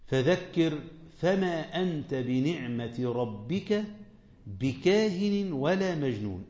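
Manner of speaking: slow, drawn-out recitation; Quran recitation. Acted. Preacher recites the verse before explaining it, slow. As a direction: let the verse unfold word by word.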